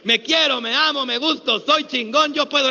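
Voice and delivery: confident shouted affirmation. Shown as a demonstration. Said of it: "Venga, dígalo".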